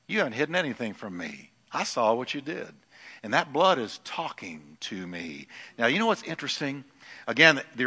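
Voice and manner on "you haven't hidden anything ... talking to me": a hint of a stern hushed God; God's quiet rebuke. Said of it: "He said".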